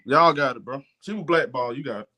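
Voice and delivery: low-pitched, giving up the fight; resigned concession. Real, not acted. Panelist conceding the blackball argument to the others, resigned. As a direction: drop low and let them have it.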